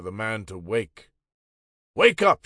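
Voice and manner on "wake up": sharp shout, much higher and louder; yelling. A narrator's reading. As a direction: bark it at a sleeping prisoner. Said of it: "she yelled".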